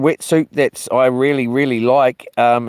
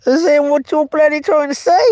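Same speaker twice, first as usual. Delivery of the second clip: mock outrage; 12 semitones higher than usual. Mock outrage at a chat comment.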